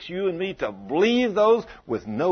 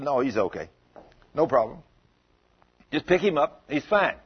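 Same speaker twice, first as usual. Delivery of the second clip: unruffled, low-key answer to the panic; calm reassurance; 3 semitones lower than usual. Acted. Jesus tells everybody the boy is okay, calmly reassuring. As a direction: settle them down, easy and unhurried. Jesus calms alarmed crowd.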